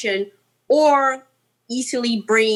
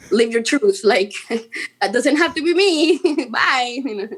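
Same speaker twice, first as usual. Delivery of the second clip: retold reply. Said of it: "And I'm like".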